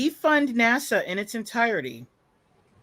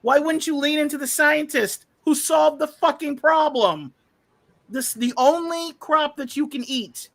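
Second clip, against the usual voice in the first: retold rant; 2 semitones higher than usual. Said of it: "I'm like".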